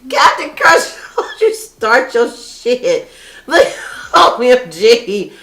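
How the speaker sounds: high, loud, laughing greeting; hyped reading a fan's name on stream; excited. Real, not acted. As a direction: shout it out through giggles. Excited reading comment names.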